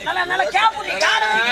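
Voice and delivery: stern order. Acted. Midwife ordering woman in labour.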